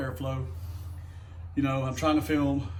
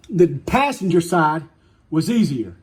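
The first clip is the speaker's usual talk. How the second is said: "passenger" stressed, louder and slow; irritated correction; 5 dB louder, slower than usual. Real, not acted. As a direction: drive the point home with annoyance. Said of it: "Damn, I'm getting aggravated today".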